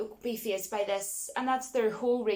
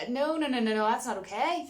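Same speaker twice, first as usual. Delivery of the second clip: mock protest; 3 semitones higher than usual. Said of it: "I'm just kidding".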